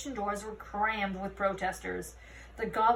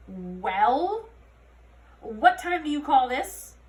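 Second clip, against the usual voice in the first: loud, sharp demand; scolding commander; 3 semitones higher, 8 dB louder, much slower than usual. A narrator's reading. Root demanding why Holly is late. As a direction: bark the question at her.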